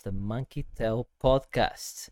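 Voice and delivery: slightly hushed late-night host intro. Real, not acted. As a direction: welcome listeners in a mellow night-time podcast voice. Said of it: "I'm doing my night voice".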